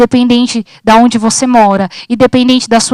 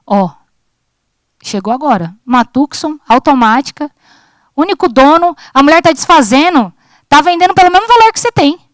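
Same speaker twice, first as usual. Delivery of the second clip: excited salesman pitch; 3 semitones higher than usual. Retold or imitated. Dealer pitches the surprise Tucson.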